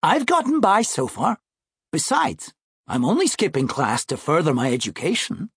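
lightly voiced, self-assured seventh grader; confident schoolboy brother. Brother brushing off his sister's questions, lightly voiced confident boy.

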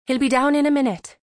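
light mum voice. A narrator's reading. Neve answers brightly.

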